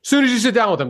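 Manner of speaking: ordinary talk, nothing marked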